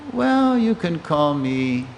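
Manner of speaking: slow, hesitant, thinking it over; considering. Retold or imitated. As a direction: weigh each name slowly, then lift on the last. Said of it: "from trying to brush it off to considering".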